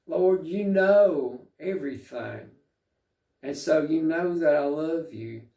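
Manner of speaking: a mild ache of grief in the plea; mildly pained Peter pleading; cut to the heart. Retold or imitated. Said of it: "it just really cuts Peter to the heart".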